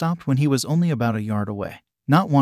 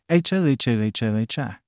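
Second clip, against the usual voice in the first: booming hero laugh. A narrator's reading. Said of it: "The voice laughed".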